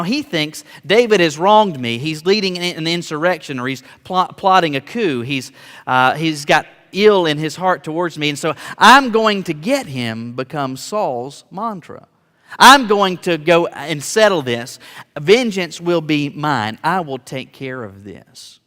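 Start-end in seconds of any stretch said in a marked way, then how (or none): 0.8-10.3 forceful, louder, accusing rant; Saul's angry vow. Acted. Saul convincing himself David is out to get him, loud and aggrieved. 12.6-18.6 slow, loud, deliberate resolve; vengeful vow. Acted. Saul deciding to settle things himself, slow and forceful.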